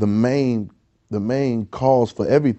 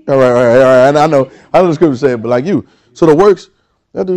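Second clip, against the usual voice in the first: preaching at full force; 8 dB louder than usual. Acted. Preaching climax.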